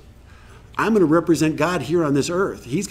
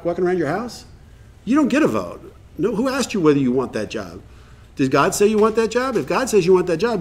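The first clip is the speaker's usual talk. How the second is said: firm sponsor lecture; 3 semitones higher than usual. Retold or imitated. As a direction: stop him short and set him straight. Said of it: "And I'm like".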